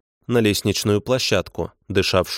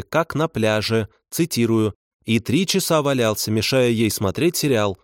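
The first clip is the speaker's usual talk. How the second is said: higher, nagging clerk reading a complaint; bureaucratic voice; 5 semitones higher than usual. Acted. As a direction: scold him like a tired office dispatcher. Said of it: "насквозь бюрократический голос диспетчера".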